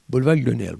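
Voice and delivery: put-on French street name with an American accent. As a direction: imitate an American mangling "boulevard Grenelle". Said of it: "des Américains descendent, ils vont voir la Tour Eiffel". (accent américain imité)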